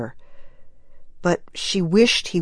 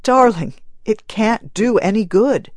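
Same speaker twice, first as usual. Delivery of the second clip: a pleading husband, lightly voiced; husband begging his grieving wife to stay; 5 semitones higher, 4 dB louder than usual. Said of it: "he begged".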